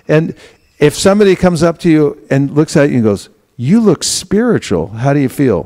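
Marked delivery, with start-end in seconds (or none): 3.6-5.6 uplifting compliment. Shown as a demonstration. The uplifting greeting, set against the gloomy one.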